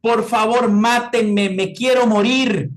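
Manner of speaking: high, loud, pleading cry of someone in unbearable pain; anguished cry of pain. Retold or imitated. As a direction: wail it out like a loved one in a pain crisis begging for relief. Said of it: "que empieza a gritar". (grito desgarrado de dolor, agudo y fuerte)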